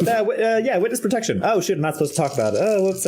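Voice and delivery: sheepish character voice oops; high comic character voice. Acted. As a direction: blurt the secret then catch yourself. NPC blurts witness protection.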